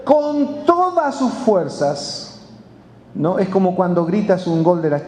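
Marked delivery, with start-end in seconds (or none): 0.0-2.3 CON TODAS SUS FUERZAS stretched slow and high; raised, drawn-out emphasis on "con todas sus fuerzas"; emphatic. Retold or imitated. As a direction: drive home every word of "con todas sus fuerzas", slowly. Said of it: "empezó a gritar".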